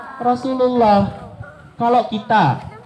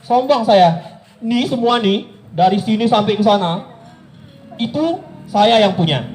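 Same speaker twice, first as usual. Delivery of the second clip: mock arrogant boast. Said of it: "kemudian kita bilang".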